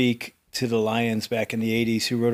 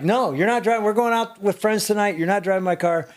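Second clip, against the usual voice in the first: firm refusal; 7 semitones higher than usual. Retold or imitated. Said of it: "And I'm like".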